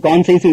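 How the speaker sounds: கான்சைன்ஸ் said "kon-sains"; shown pronunciation. Shown as a demonstration. Teacher showing how conscience is said, கான்சைன்ஸ் as "kon-sains". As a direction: say conscience as கான்சைன்ஸ், second part like "science". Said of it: "உச்சரிக்கணும்".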